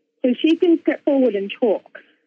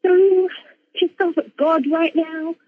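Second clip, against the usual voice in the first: higher-pitched, emphatic angry outburst; retold anger; 7 semitones higher than usual. Her angry part railing at God, retold anger. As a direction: let the pissed-off part burst out, retold. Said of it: "really angry".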